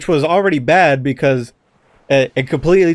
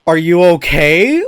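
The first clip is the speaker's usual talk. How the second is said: worried plea; 4 semitones higher, 7 dB louder, slower than usual. Retold or imitated. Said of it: "I was like".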